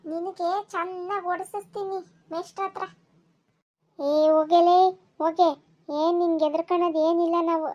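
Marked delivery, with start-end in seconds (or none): 4.0-7.7 loud scornful shout at the class leader; defiant shout. Acted. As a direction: yell back, daring her to complain. Boy defies class leader. (ಜೋರಾಗಿ ಕೂಗಿ ಸವಾಲು ಹಾಕುವ ಧ್ವನಿ)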